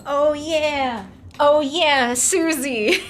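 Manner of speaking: Aunt Susie the Minnesota mom. Acted. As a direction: slip into a chirpy aunt character. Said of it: "I love Susie".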